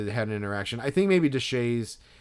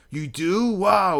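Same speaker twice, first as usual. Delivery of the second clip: mock surprise; 9 semitones higher, 8 dB louder, much slower than usual. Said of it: "he's like".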